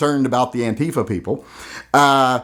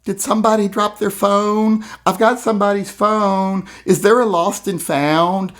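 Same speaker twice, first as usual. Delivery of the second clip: lightly raised, meek mock asking; a hint of a timid protester; 6 semitones higher than usual. Mocking the protesters' lost-phone question, meekly. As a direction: mimic a lost polite kid. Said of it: "It's like".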